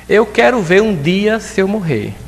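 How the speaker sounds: high, slow martyred mom; a mother guilt-tripping her children, slow and high; classic mother's lament. Retold or imitated. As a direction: sigh it like a weary mother. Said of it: "É uma frase clássica da mãe".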